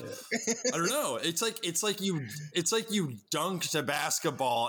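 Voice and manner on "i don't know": slow, high, laughing shrug. Retold or imitated. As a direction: drawl it out while laughing. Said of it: "And you're like".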